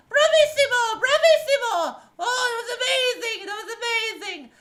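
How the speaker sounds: high, loud, gushing praise; flamboyant little man. Acted. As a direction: burst in like a showy bard. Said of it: "and he says".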